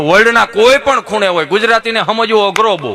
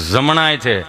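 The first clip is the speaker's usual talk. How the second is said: low, dragged-out stammering answer; a stuttering simpleton slowly gets his name out; slow dim stammer; 8 semitones lower, slower than usual. Retold or imitated. To the nurse, Gabho answers his name in a low stammer.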